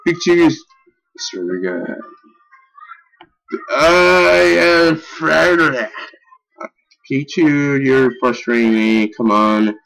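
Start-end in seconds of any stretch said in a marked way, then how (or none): 3.7-5.9 dread cry. Real, not acted. Gamer dreading the attack.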